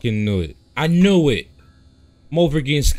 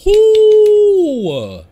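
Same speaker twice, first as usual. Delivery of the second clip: high startled shriek; scream; 8 dB louder than usual. Real, not acted. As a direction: shriek in fright. Gamer screaming at jumpscare.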